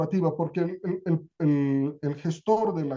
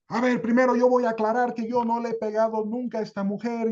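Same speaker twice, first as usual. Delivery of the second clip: lightly voiced husband, quick, insistent denials; a hint of an indignant husband rattling off denials; defensive husband; 3 semitones higher, faster than usual. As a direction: protest your innocence fast, a bit higher. Husband defends himself at hearing.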